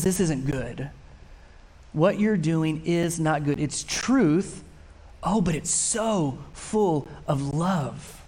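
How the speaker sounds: preacher voicing the same rebuke tenderly; loving side. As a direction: plead with him out of love. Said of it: "But the loving side is".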